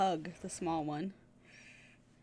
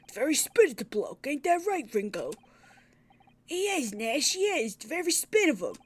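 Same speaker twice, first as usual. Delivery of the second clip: excited higher Cockney brothers; 4 semitones higher, 3 dB louder than usual. Acted. Brothers explain their search.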